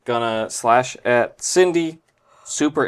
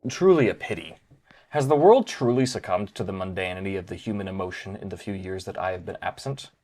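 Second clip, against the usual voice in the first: villain monologue. Acted. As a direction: deliver a cold god-complex monologue.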